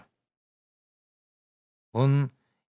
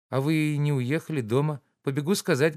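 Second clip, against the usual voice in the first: higher, lively maid's voice; young maid; 5 semitones higher than usual. Acted. Katya the maid brings the young lady's question, brightly. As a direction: chirp it like an eager young maid.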